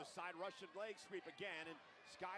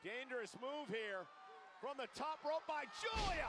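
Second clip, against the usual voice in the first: live play-by-play, rising; wrestling commentator; 3 semitones higher than usual. Real, not acted. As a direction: call the big move ringside.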